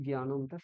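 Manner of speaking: জ্ঞানমটা as gyanam-ta, with hard g; gy at the start of জ্ঞানমটা; Bengali mispronunciation. Shown as a demonstration. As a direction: say জ্ঞানমটা without the nasal ny. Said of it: "সংস্কৃতে ভুল উচ্চারণ".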